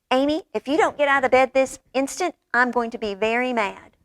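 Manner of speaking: a hint of a stern father; lightly voiced strict dad warning; father upstairs: a touch of stern; sternest father voice. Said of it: "in his sternest father voice".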